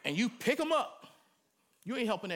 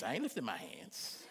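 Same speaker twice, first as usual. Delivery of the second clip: mock stubborn refusal; 9 semitones lower, 7 dB quieter than usual.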